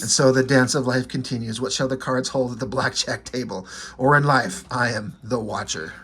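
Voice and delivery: low, solemn cosmic narrator voice; ominous narrator. Retold or imitated. The Watcher narrating the blackjack table, low solemn intoning.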